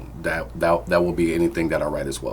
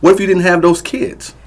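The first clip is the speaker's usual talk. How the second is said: much higher, loud angry yell; furious shout; 13 semitones higher, 10 dB louder than usual. Acted. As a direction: explode at her in rage. Abusive father threatening.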